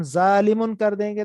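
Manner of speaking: "ظالمون" with a thin, light z; thin, light consonant. Shown as a demonstration. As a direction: keep the first sound of "ظالمون" a plain z. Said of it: "اس کو پتلا باریک کریں گے".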